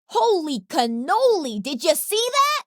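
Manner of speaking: thrilled bragging shout; excited. Acted. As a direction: gloat over the hit, pitch climbing up. Cheering his own big hit.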